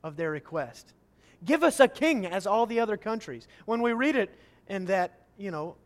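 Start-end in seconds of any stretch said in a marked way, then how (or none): 1.4-3.5 put-on childish demand. Shown as a demonstration. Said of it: "listen to the childishness of their request".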